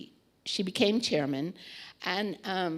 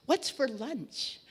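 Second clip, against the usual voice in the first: a slow, higher, lightly voiced cheerful question; playful question; 6 semitones higher, slower than usual. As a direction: imitate her sunny greeting, drawn out. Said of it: "and she'd say".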